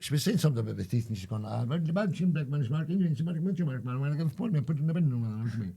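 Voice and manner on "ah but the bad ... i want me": imitating the Appalachian hairdresser, half-joking; mock Appalachian accent. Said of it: "see that Appalachian accent?".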